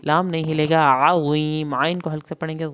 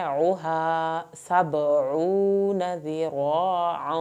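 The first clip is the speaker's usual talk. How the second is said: slow melodic tajweed recitation; measured Quranic chant, vowels stretched; much slower than usual. Shown as a demonstration. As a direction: recite it slowly, drawing out every long vowel. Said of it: "با کا قلقلہ کریں گے".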